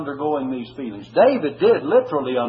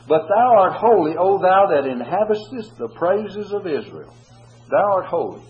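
exalted praise; 5 semitones higher, 5 dB louder than usual. Acted. Quoting psalm in praise.

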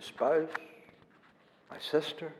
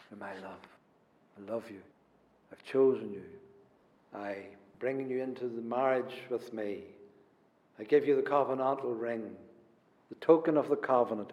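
soft and much quieter, gently spoken to the beloved; tender voice of the Lord; 4 semitones lower, 4 dB quieter than usual. Acted. Preacher voicing the Lord to his people, soft and tender. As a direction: murmur it like a promise to a bride. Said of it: "the Lord talks like that to us".

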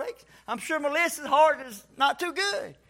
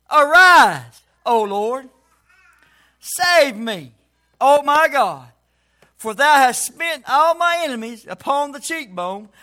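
scripture reading; 3 dB louder than usual. Acted. Preacher reading a psalm to the church, solemn scripture recitation. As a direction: declaim the verse in measured, stretched phrases.

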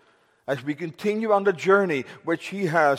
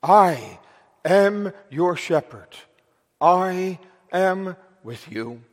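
intimate, personal; slower than usual. Acted. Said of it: "in such a personal and intimate way".

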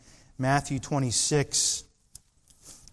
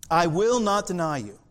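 vehement denial; 3 semitones higher, 4 dB louder than usual. Acted.

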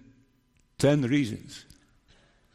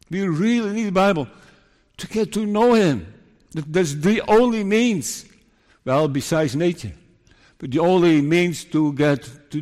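higher-pitched, urgent preaching; earnest pulpit appeal, pitched up; fervent preaching; 5 semitones higher, 3 dB louder than usual. Real, not acted. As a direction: press the point home to the congregation. Preacher urging the congregation.

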